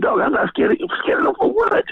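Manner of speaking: rising to a high scoff; retold scoffing. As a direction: laugh off the idea of being scared, pitch climbing. Quoting himself, retold bravado.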